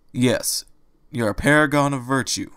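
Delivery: dry mocking praise; lightly sarcastic rabbit. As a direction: roll your eyes through it. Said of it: "Angel said sarcastically".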